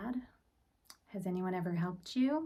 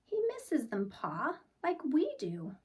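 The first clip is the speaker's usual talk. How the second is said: put-on higher little girl telling Pa; child voice; 6 semitones higher than usual. Laurel telling Pa about the doll, higher child voice. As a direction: speak it up like a worried child.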